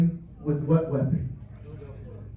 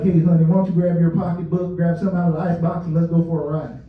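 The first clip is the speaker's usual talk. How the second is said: mild southern twang; 4 semitones lower than usual. Retold or imitated. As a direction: lay on a hint of Southern accent, playful. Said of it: "with a little southern twang".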